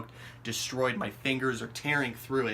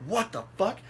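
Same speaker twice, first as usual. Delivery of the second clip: higher-pitched, baffled exclamation; retold shock, voice jumping up; startled disbelief; 8 semitones higher than usual. Startled by sudden thunder, baffled disbelief.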